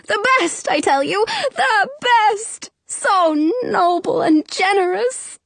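emotional genie, increasingly high-pitched; overjoyed genie. A narrator's reading. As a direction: heap on praise, overcome with gratitude.

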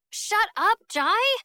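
high, loud snap; irritated snap. A narrator's reading. Girl frozen to a door silences the joker, snapping. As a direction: snap at him, pitched sharply up. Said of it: "snaps Jingfei".

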